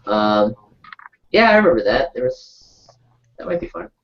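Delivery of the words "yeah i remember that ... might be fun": sounding far away down a hallway; distant mic, like in a hallway. Real, not acted. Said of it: "why do you sound so far away? Like you're in a, like, a hallway".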